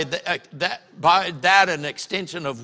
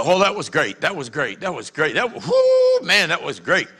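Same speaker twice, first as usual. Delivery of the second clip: hammed-up churchgoer with a squealed whoo; mock gushing praise. Churchgoers praising the sermon at the door, hammed up. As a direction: overdo the compliment. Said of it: "and they go".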